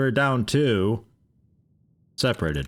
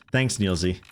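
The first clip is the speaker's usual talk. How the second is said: ordinary talk, nothing marked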